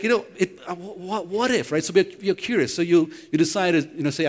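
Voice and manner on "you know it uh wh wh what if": wondering what if. Retold or imitated. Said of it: "then you're like".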